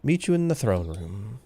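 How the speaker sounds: a chirpy little musician eager to play; a hint of a perky hamster bard, no accent. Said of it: "Should probably give that guy a more Eastern European accent".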